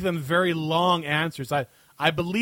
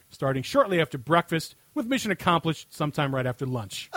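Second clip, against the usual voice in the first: emphatic segment-host read, punching key phrases; scripted comic rant. Acted. Host answering a listener question on air, scripted comic rant. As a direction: read a mock-serious written answer aloud.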